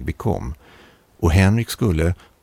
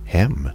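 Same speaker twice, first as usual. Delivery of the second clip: "Hem" as a mild question; one-word "Hem", lightly questioning. A narrator's reading. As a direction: say "Hem" questioningly, as if puzzled to be asked. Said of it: "sa han frågande".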